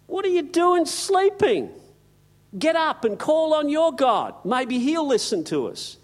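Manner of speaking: high, loud frantic sailor voices; panicked sailors. Retold or imitated. Sailors shouting at sleeping Jonah, high and frantic. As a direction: shake Jonah awake in alarm.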